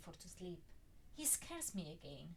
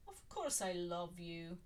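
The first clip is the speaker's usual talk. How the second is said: smirking; slower than usual. Acted.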